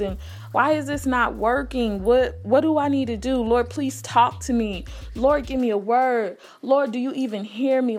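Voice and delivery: begging God to finally answer, lightly acted; desperate pleading prayer. Retelling her prayer on the drive home, pleading. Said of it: "I was literally begging and pleading with God".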